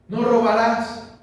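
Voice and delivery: solemn commandment, spoken slow; commandment proclaimed. Acted. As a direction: lay down the law, word by word. Preacher quotes commandment.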